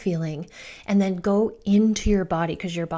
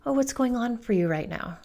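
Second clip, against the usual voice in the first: gently curious parent, a little softer; 2 semitones higher, 3 dB quieter than usual. Retold or imitated. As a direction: ask with open, unhurried curiosity. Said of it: "It's curious".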